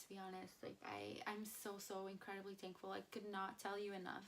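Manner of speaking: quiet heartfelt thanks; overwhelmed. Real, not acted. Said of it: "I'm a loss for words".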